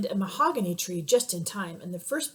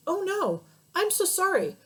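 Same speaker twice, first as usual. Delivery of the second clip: flustered apology; 10 semitones higher than usual. Acted. Father apologises, hanging in air.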